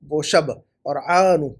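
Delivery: slow شب, then عان as separate parts; split syllables. Shown as a demonstration. Teacher builds word from night word, split syllables. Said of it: "رات کے لیے جو لفظ".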